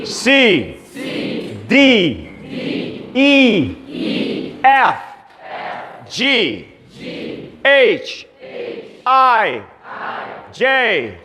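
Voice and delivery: the whole alphabet, letter by letter, the English way. Shown as a demonstration. Teacher leads the class through the alphabet. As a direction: run the alphabet one last time. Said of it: "Repita comigo uma última vez".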